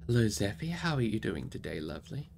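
soft fond aside to the pet, fading away; talking to a pet. Real, not acted. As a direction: coo gently to a beloved animal. Reader stops to greet her pet.

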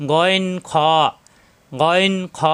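গইন খ said thick from the back of the throat; thick ghain. Shown as a demonstration. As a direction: give গইন খ a heavy throaty sound. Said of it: "মোটা করে উচ্চারিত".

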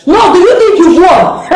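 raging, shouting curses at him; furious cursing. Acted. Woman cursing her enemy Emmanuel, furious shouting. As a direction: spit every curse at the man who beat her.

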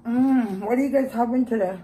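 talking while eating; muffled chewy speech; mouth full, chewing. Real, not acted. Seen 0: Chewing lips, holds neck bone, fingers at mouth while speaking.

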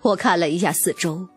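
ordinary delivery, nothing marked

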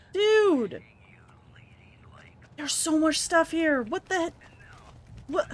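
hushed excited whisper. Real, not acted. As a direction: breathe it out in awe. Exploring abandoned store, hushed.

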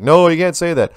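high, loud mock protest; mock shocked protest. Imagined objector gasping at the speaker's harsh remark. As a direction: feign being scandalised by your own words. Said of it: "I was like".

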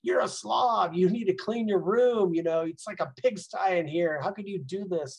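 mild mock yell at a child over his messy room; mock parent yelling. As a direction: ham up an angry parent, loudest at the start. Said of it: "just yelling at that kid".

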